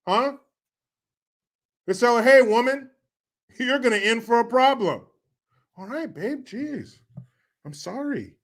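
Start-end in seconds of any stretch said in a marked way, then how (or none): 2.2-5.1 raised-pitch mock warning to a wife; stern husband. Acted quarrel with the wife. 5.8-8.4 soft, meek mock apology; cowed wife. Wife backing down in quarrel.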